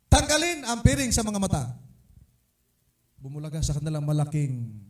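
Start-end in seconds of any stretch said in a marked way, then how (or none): 0.1-1.8 raised, higher command; calling out. Retold or imitated. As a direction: call out loudly to remove the blindfolds. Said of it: "nung sabihin ko na". (malakas na utos sa mga miyembro)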